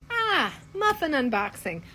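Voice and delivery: hint of a husband savoring a dirty joke; lightly voiced husband. Husband spots the episode title, lightly voiced sly relish. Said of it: "And my husband goes".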